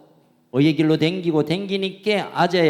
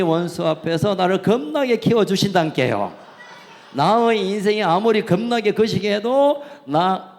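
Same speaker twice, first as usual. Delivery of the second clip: Jeolla dialect. Pretend. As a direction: belt out the Jeolla version, grinning. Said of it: "저 내비가 전라도 말입니다". (웃음 섞인 신나는 전라도 사투리 시편)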